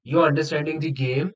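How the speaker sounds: slow, careful model sentence; a teacher reading the answer slowly. Shown as a demonstration. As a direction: spell it out word by word. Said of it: "As simple as that".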